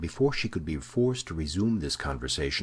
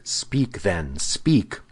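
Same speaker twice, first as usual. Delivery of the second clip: urgent demand, building higher and louder; crying out; 3 semitones higher, 6 dB louder, much slower than usual. A narrator's reading. Officer urging the prisoner to explain, crying out. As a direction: press harder on the repeated word, ending high. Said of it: "cried the officer".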